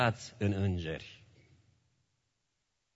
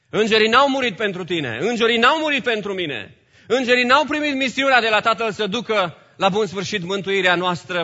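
loud, high opening that gradually settles; emphatic, insistent pulpit delivery; forceful preaching; 5 semitones higher, 7 dB louder than usual. Real, not acted. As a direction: drive each denial home to the congregation.

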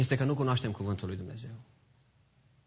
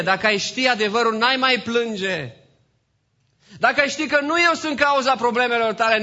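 loud, high, emphatic sermon climax; forceful pulpit proclamation, voice raised; impassioned preaching; 11 semitones higher, 8 dB louder than usual. Real, not acted. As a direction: cry it out to the congregation.

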